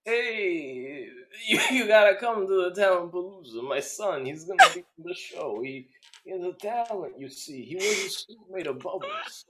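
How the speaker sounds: Al Pacino voice. Acted. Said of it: "oddly portrayed by Al Pacino".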